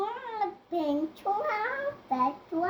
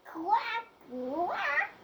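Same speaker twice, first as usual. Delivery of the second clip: duck quack; 3 semitones higher, 5 dB quieter than usual. Real, not acted. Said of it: "what does the duck say?".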